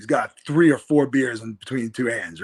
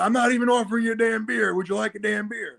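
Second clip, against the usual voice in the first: Steve Austin voice; 7 semitones higher than usual. Retold or imitated.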